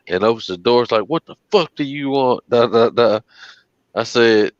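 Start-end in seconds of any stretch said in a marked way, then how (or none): 1.1-3.2 imitating armed homeowner. Armed homeowner confronting deliverer.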